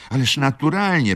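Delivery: high, loud burst of agreement; eager interruption. A narrator's reading. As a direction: cut in emphatically. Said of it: "przerwała mi". (gwałtowne, głośne wtrącenie)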